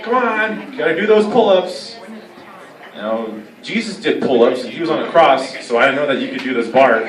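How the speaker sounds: hammed-up preacher cheering you on; mock priest coach. Priest as motivating gym coach.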